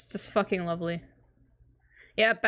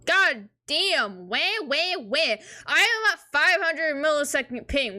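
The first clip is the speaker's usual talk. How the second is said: exasperated; 5 semitones higher, slower than usual. Real, not acted. Exasperated at terrible stream lag.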